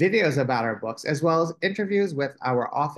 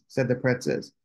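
ordinary delivery

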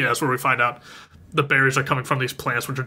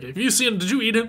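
high mock-panicked questioning; imitated frantic interrogation; frantic retelling; 9 semitones higher, faster than usual. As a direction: act a dad demanding his missing kid. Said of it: "Hart freaking out".

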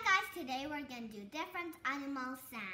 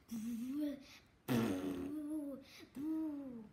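elephant trumpet; 3 semitones lower, much slower than usual. Shown as a demonstration.

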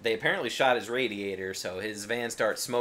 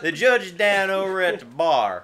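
redneck janitor voice; 8 semitones higher, 7 dB louder than usual. Retold or imitated. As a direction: play the dim small-town janitor giving directions. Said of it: "he says some redneck shit".

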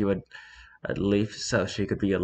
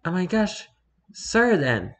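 high, gleeful mock yell; happy yell; 9 semitones higher than usual. A narrator's reading. Starpaw accepting Graystripe's proposal, happy high-pitched yell. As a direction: squeal it with hammed-up delight. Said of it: "Starpaw yelled happily".

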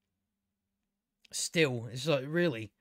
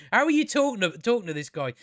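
exasperated repeat; 4 semitones higher than usual. Real, not acted. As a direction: repeat it with incredulous punch on "are". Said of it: "How are you talking to this guy?".

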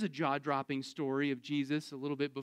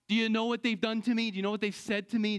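mock grievance; 3 semitones higher, faster than usual. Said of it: "people who it's really hard to extend mercy".

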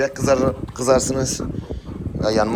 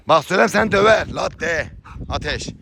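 warning the dog; 7 semitones higher than usual. Real, not acted.

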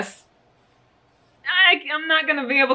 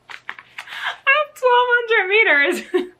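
high, slow laughing disbelief; 13 semitones higher, 4 dB louder, much slower than usual. Real, not acted. Vlogger laughing at her own yarn haul, high and slow. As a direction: laugh through the number.

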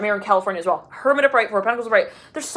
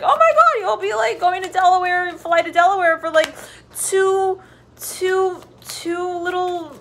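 thrilled squeal; 10 semitones higher than usual. Acted. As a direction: squeal it like you can't believe the deal. Customer thrilled at a crazy deal.

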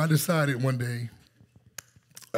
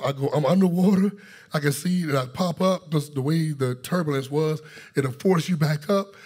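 louder, higher, breathless-sounding retelling of the panic; the preacher builds to an urgent, raised-voice climax; retold panic; 3 semitones higher, 4 dB louder than usual. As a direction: relive the drowning rush for the congregation.

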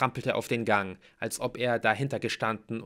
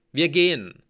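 raised, emphatic voice; firm announcement; 6 semitones higher, 10 dB louder than usual. A narrator's reading. Hero tells floormates they are leaving, emphatically. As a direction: state it loudly and decisively.

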